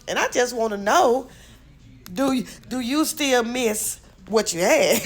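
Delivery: high, prying mock voice of a nosy woman; sing-song imitation of a meddling woman; imitating her. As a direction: pitch it way up and pry like her. Retelling a woman's nosy questions.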